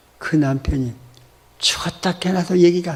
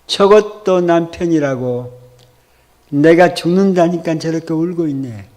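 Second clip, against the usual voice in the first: drawn out slowly, a bit louder, each word weighted; slow emphatic; 3 dB louder than usual. Retold or imitated. Wife repeating her thought about the husband, slow and emphatic. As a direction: lean on it slowly, moved. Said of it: "아내 마음이".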